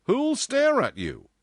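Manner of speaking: loud, slow, high question; challenging boss. A narrator's reading. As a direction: challenge her in full voice. Boss challenges her worry.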